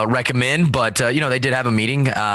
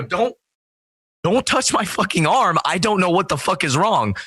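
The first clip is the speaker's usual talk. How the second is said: higher, half-mock panicked warning; retold panic; 8 semitones higher than usual. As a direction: warn her off your arm, rattled. Retold telling girlfriend off.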